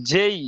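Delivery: "জেই" stretched with a closing i; long gliding "জেই"; correct J. Shown as a demonstration. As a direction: model "জেই" clearly for learners. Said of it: "তাহলে হবে কি".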